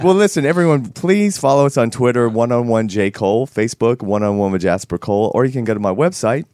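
hoarse from a frog in the throat; slightly hoarse, husky voice. Real, not acted. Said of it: "You're sounding very sexy".

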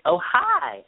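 high, lips-pushed-down mock hello; imitating Victoria's greeting. Friend mimics coworker's daughter greeting her, high and pouty. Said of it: "she puts her lips down".

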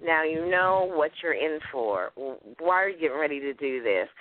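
gently caution, as a nagging conscience; inner voice. Acted. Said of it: "I hear my little voice say".

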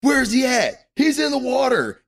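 high, loud hammed-up alarm; mock TV shout. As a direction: call it out like a TV rescuer. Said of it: "and they go".

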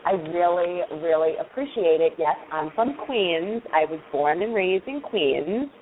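broad New York Jewish accent, gushing; strong New York accent. Shown as a demonstration. Candidate greeting recruiter in heavy New York accent. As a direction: lay the Queens accent on thick. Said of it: "There's a difference if I go and go".

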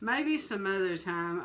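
a hint of a gentle pastor; soft pastor. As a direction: ease off kindly.

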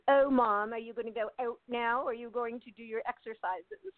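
lightly mocked Canadian accent; imitated Canadian accent. Son making fun of mom's exercise habit, mock Canadian accent. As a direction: tease with a mild put-on Canadian accent. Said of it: "Repeating her Canadian accent".

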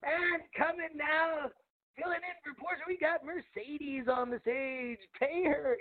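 slow, drawn-out emcee intro; a hint of club announcer; lightly voiced strip club announcer. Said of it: "strip club announcer voice".

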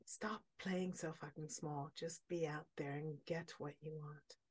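"Stop playing so fucking small" in a fierce whisper; whispered urging. Real, not acted. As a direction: drop to an intense whisper, urging. Heartfelt wish, voice drops.

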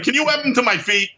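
high hopeful ask; webbed-up guy. Retold or imitated. Asking Spidey to web his shoes on, high and hopeful. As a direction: pitch up and plead.

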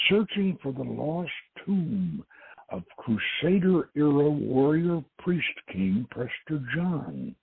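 dramatic radio trailer voice; old-time radio teaser read; promo read. Acted. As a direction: sell the adventure like an announcer. Reads radio show promo blurb.

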